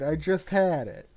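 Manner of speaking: flustered, searching aloud; frantic wizard. Retold or imitated. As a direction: call out like a frazzled wizard. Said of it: "saying things like".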